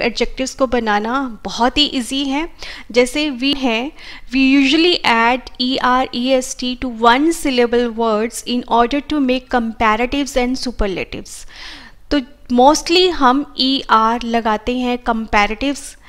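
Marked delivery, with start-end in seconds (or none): 4.3-11.4 slow, deliberate dictation of the rule; teacher dictating a grammar rule slowly; slow rule reading. Acted. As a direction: read the rule word by word for students. Reads the grammar rule aloud.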